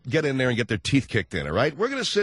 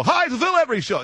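high, loud affected announcer greeting; show-opener voice; 13 semitones higher, 5 dB louder, faster than usual. Pretend. Host starting work, affected announcer voice. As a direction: burst in with a hammed-up show opening. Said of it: "I come to work and go".

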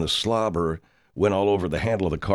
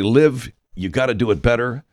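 louder, higher self-directed urging; coaching himself; 4 semitones higher, 5 dB louder than usual. Retold or imitated. Director talks to himself from the chair, urging loudly. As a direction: urge yourself on like a director. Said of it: "I'd talk to myself".

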